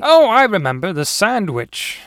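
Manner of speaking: loud, high 'oh', then slowing; sudden recollection. Acted. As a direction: burst out loud, then draw out the last words. Story character suddenly remembers.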